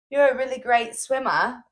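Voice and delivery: imitated British swimmer, fairly restrained; lightly put-on British accent. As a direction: quote him in a mild British accent. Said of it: "he was British".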